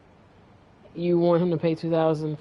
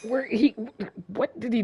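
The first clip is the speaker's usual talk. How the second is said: frantic; 7 semitones higher, 3 dB louder than usual. Real, not acted. Losing track of enemy in game.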